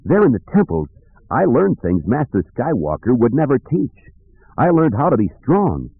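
a hint of proud, defensive defiance; defiant young man. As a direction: insist on newfound strength, lightly acted. Kip defends his dark training.

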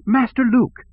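high-pitched droid crying out; C three P O. A narrator's reading. Droid calling out to his master, high metallic cry. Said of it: "three P O cried".

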